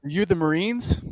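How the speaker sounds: high, urgent survivor asking for help; hopeful stranded survivor. Acted. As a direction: James reaching the rescue team by radio. GM voices survivor James.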